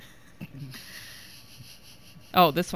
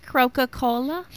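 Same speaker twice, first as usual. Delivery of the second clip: put-on kid voice; 6 semitones higher than usual. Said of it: "I'm trying to do my kid voice".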